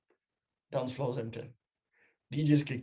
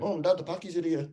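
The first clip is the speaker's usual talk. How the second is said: film quote imitation; 5 semitones higher than usual. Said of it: "you know, seen East is East?".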